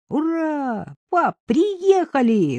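high, gleeful shout to dad; boy yells that the truck has come; excited yell. A narrator's reading. Boy yelling to his dad that the delivery has arrived, high excited shout. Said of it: "завопил невесть откуда появившийся Мишка".

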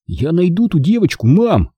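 put-on earnest boy, pitched high; a touch of solemn resolve; serious. A narrator's reading. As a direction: promise it seriously to your mother. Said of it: "серьёзно сказал Чарли".

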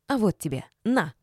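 ordinary delivery

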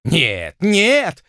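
sharp no. A narrator's reading. Lord abruptly changes his mind, loud sharp refusal. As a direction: snap back a sudden refusal. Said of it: "резко передумал лорд Джулиан".

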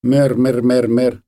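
repeated, even herding call; sheep call. Retold or imitated. Neighbour Mykhailyna calling her sheep, imitated herding call. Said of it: "як вона кликала овець".

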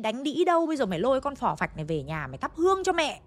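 high, shrill-edged tirade starting with a wail, then cursing the husband; jealous wife berating her husband before the village; furious cursing. Retold or imitated. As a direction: hurl it at him in a jealous rage at the funeral. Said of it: "bác gái chửi ông đấy rất là, là, là ác mồm, thô ấy, vì rất giận".

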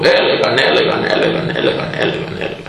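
the repeated έλεγαν dropping away into a whisper; fading chatter. Retold or imitated. Mocking the crowd that talked and talked, fading to a whisper.

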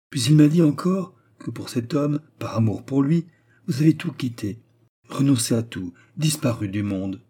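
acted impassioned confidante; fervent young courtesan. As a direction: declaim it with romantic fervour. Turquoise tells of absolute love.

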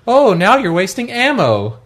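slow, lightly voiced scolding mom; a hint of a disapproving mother; nagging mom voice. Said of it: "like a mom type character".

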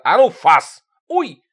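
loud, sharp dog command. Acted. Uncle Styopa commanding his dogs, loud. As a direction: sic the dogs.

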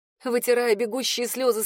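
usual speaking voice

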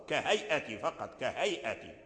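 كهيئة with the yā glide kept short; don't hold the glide before the hamza in كهيئة; short madd. Shown as a demonstration. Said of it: "وقالوا نقرأ بالقصر". (قصر اللين في كهيئة)

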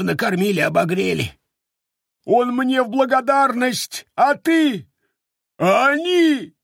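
hammed-up sobbing from mild to desperate; sobbing wail. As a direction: blubber out the grief, breaking at the end. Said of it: "а рыдал, причём взахлёб".

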